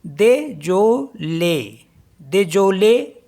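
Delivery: दे जो ले said slowly, syllable by syllable; French désolé. Shown as a demonstration. Teacher breaking French word into syllables. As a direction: say दे जो ले in separate beats. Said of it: "D E S O L E".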